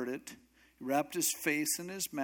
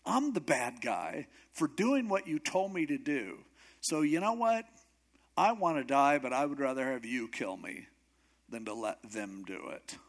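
frustrated. Acted. Elijah tells God he would rather die, frustrated. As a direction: complain like someone at the end of their rope. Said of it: "obviously he's a bit frustrated".

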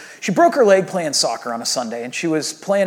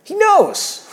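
put-on higher, slow little girl's voice, drawn out; ten-year-old daughter; 14 semitones higher, 3 dB louder, much slower than usual. Dad voices his ten-year-old daughter's calm faith, higher and slow. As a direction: voice the little girl calmly insisting. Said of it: "And she goes".

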